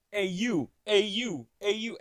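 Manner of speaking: high, loud calls picking people out; punchy mock holler; imitated yelling. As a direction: imitate a man yelling at passers-by. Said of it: "yelling at people, pointing people out".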